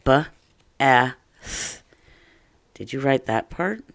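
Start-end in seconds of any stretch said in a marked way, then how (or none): 0.0-1.8 B-a-th sounded out letter by letter; sounding out. Shown as a demonstration. Teacher sounding out for young students. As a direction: stretch B-a-th into its sounds. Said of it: "let's sound it out".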